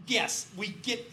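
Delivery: slow, drawn-out weary yes; mock exasperated. Breland tells the bank executive, exasperated slow. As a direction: roll your eyes through it. Researcher answering the bank man.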